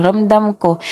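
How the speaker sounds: plain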